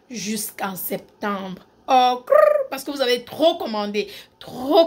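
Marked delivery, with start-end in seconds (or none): 1.9-2.7 high, loud trilled exclamation; playful high-pitched tongue roll. Real, not acted. Playful reaction to sold-out stock.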